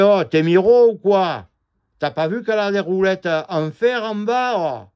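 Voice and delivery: hammed-up scornful yell of the dump man. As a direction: bark it like a rude local worker. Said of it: "mais ils parlent comme ça". (imitation moqueuse d'un employé du Midi, plus fort et plus aigu)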